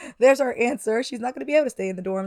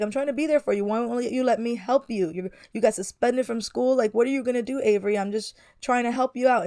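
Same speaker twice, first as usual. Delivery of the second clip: upset. Acted. Boyfriend pleading with Avery after her suspension, mildly upset. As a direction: push back a little harder, hurt. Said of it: "Look, he's upset".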